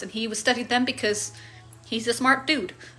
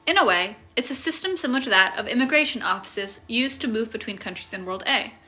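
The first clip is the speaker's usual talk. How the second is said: story narration. A narrator's reading. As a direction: read it like a novel chapter. Reads the novel aloud.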